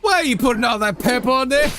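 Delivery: imitating a video meme. Quoting a viral video to chat, high freaked-out squeal. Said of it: "You know that video?".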